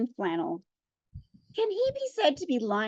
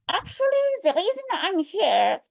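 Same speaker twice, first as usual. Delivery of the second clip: put-on Russian accent; 7 semitones higher than usual. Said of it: "better Russian accent".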